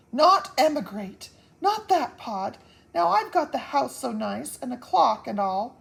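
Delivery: high, loud desperate pleas; pleading protest. Acted. Wife begging husband not to emigrate, loud desperate plea. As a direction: beg him not to make them leave.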